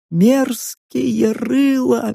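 high, slow, fading chant; crone muttering repeatedly. A narrator's reading. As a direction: repeat it as if stuck in a loop. (навязчиво повторяет)

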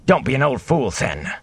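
snapped rebuke. A narrator's reading. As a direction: snap at a foolish old neighbour. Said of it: "then snapped".

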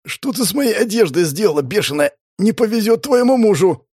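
playful indignant scolding; exasperated jibe. Acted. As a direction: grumble at her, half joking. Hero exasperated by torn clothes.

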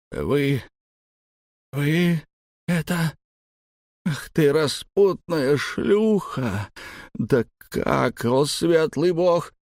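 put-on old farmer choking on rage; outraged stammer.

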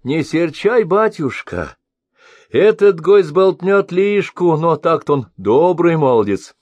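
put-on high, soothing old woman's voice; calm the master down like a fussing granny; old woman comforting the master, high and soothing. A narrator's reading. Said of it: "Старуха стала утешать".

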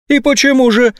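very high, venomous question; utmost snideness. A narrator's reading. General needles the colonel, extremely snide. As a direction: ask with maximum snark. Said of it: "с предельной степенью ехидности".

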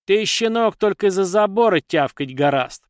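high, loud yelling insult; shouted taunt. A narrator's reading. Dalina shouts an insult back at the lad. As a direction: hurl the taunt back at him. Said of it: "прокричала Далина в ответ".

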